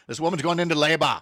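mock Austrian accent, "labor" as "LAY-bah"; hammy Austrian action-star accent; Arnold Schwarzenegger. Quoting the ad's action hero, mock Austrian accent. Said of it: "the Schwarzenegger one".

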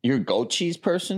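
high, amazed question; can't believe it; surprised. Real, not acted. Reacting to goat cheese choice.

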